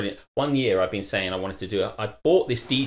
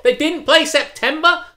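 higher, louder, slower, stretched out; more outraged; 9 dB louder, slower than usual. Real, not acted. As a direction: lean right into the indignation. Repeats the outrage, bigger.

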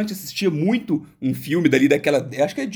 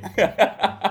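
evil laugh; 2 semitones higher than usual. Pretend. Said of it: "minha risada maléfica convenceu?".

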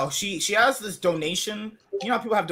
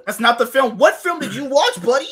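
raised, louder incredulous heckle; indignant challenge; 7 semitones higher, 7 dB louder than usual. Real, not acted. Viewer disputing the critic's take on the film, indignant. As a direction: challenge him loudly, pitch jumping up.

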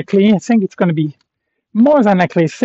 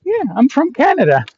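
mock echo; 10 semitones higher than usual. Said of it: "basically repeating what he's saying".

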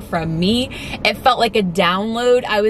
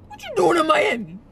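raised, scoffing imitation of a coworker; mocking coworkers; 8 semitones higher, faster than usual. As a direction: sneer at the move like a doubtful coworker.

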